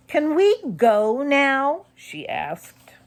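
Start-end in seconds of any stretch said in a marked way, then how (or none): 0.1-1.9 anxious. A narrator's reading. Molly scared, wants to leave.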